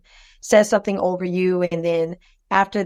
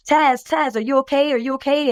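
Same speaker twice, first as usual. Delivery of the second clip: higher-pitched, retold worried check on someone; retold concern; 5 semitones higher than usual. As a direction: imitate relatives anxiously checking on you. Relatives check on her after blackout.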